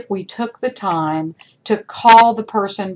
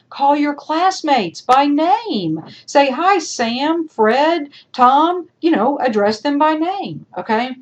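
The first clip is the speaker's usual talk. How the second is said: high, raised exasperated plea; 6 semitones higher than usual. Real, not acted. Teacher pleading with students to use names, high and exasperated. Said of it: "exasperated appeal to students".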